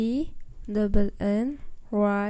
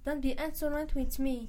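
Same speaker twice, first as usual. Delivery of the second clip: quick, softer mimicking of the teacher; cheeky sing-song imitation; mocking echo; 3 semitones higher, 6 dB quieter, faster than usual. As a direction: parrot the teacher back to mock her. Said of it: "That's enough".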